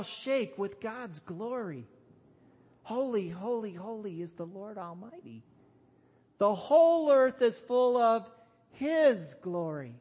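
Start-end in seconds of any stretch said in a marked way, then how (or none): 2.8-9.9 reverent start swelling into a loud proclamation; energy and strength. Shown as a demonstration. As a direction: build from measured praise to a big, raised declaration. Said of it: "with energy and strength".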